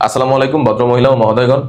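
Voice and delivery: smooth, pleasant read ending on a rise; gentle announcement tone. Shown as a demonstration. Teacher showing the right announcement tone. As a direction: greet the passengers kindly. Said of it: "not like that".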